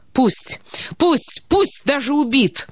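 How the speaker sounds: a breaking, hoarse half-whisper rising high; broken hoarse cry. A narrator's reading. Elena toasting despite fearing him dead, voice breaking. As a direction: cry it out as if your voice is cracking. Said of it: "надломленно и хрипло крикнула она".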